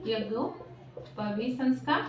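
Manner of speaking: very slow, drawn-out term with a gap between words; slow dictation. Real, not acted. Teacher repeating a term for the class, slow dictation. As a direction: spell it out slowly, as if for note-takers.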